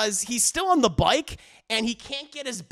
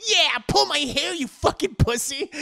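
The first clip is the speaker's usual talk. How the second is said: mock domineering taunt; 6 semitones higher than usual. Wife taunting timid husband.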